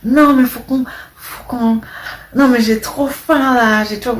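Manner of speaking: teasing impression of a contestant's Turkish-Albanian accent; imitating Gustin's accent. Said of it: "j'aime bien son accent un peu".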